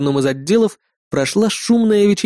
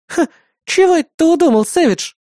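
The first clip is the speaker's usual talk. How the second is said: chuckling; 14 semitones higher, 3 dB louder than usual. Acted. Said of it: "хохотнула несносная девчонка".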